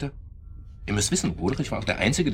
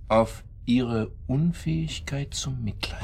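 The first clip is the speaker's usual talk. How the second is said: slow, with a scornful laugh; slow, amused contempt; 5 semitones higher, slower than usual. Acted. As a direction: laugh the accusation out slowly. Accusing answer with a laugh.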